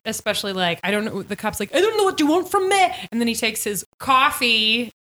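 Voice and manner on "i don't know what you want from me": high, raised-voice mock protest; exasperated cop. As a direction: act out a cop whining in defense, pitched way up. Acted cop pleading to Frank.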